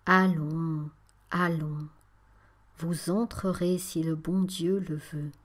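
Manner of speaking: "vous entrerez si le bon Dieu le veut" said slowly with each syllable pressed; slow, deliberate stress on each syllable of "le bon Dieu le veut"; every syllable pressed. Acted. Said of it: "en appuyant sur chaque syllabe".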